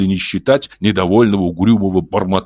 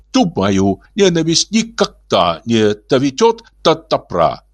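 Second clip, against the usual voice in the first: soft interruption; 7 semitones higher, slower than usual. Acted. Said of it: "мягко перебил его Улин".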